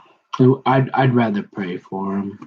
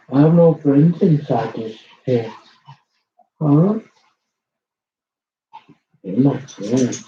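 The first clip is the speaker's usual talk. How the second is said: talking to a dog. Real, not acted. Cuddling and praising her dogs.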